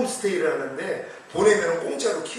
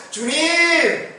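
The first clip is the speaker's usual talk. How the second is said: high, drawn-out call; raised, sustained cry of address; calling on the Lord; 9 semitones higher, 5 dB louder, much slower than usual. Shown as a demonstration. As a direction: call out loud and long to God. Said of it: "이렇게 부르기만 해도요".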